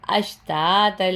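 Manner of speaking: the ت in اشتاتا joined smoothly to the following ل; joined taa. Shown as a demonstration. Teacher showing students how اشتاتا joins the next word. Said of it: "تو تا لام سے ملے گا تل".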